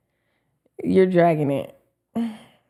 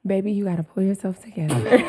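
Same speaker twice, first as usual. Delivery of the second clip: laughing through the words; giggling while teasing. Real, not acted. Laughing at her own stumble.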